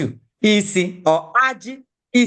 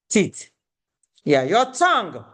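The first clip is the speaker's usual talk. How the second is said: ordinary delivery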